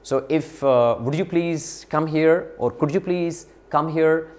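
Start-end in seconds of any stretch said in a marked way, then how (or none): 1.0-2.5 polite request. Shown as a demonstration. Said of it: "use modal verbs such as could". 2.7-4.3 polite request. Shown as a demonstration. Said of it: "use modal verbs such as could".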